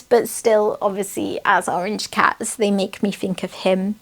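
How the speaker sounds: usual speaking voice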